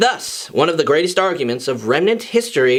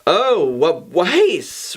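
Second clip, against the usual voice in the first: stutter; much slower than usual. Acted. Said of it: "Ruby stuttered".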